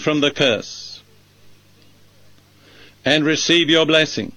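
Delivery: measured prayer in short, level phrases; led prayer. Acted. Preacher leading listeners in a prayer of release, measured praying. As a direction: pray phrase by phrase, leaving long pauses to repeat.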